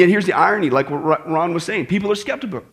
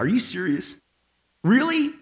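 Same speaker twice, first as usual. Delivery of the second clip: mock incredulous; 4 dB quieter than usual. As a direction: act out can't-believe-it disbelief. Jesus's rebuke in loose translation.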